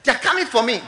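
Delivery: high, loud, fearful cry; dying man's terror. Retold or imitated. Preacher voicing the dying man, loud and afraid.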